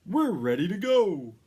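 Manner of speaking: loud, high eager cry; booming Santa. A narrator's reading. Santa announcing departure to the elves, booming. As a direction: call out the start. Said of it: "boomed Santa".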